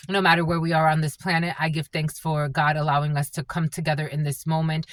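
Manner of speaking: low, soft prayer of thanks. Real, not acted. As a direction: give thanks softly in a low, even recital. Leads opening prayer.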